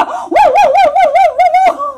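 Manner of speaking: high excited stutter; excited stammer. Retold or imitated. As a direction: sputter it out with delight. Excited stammer laughing about dog.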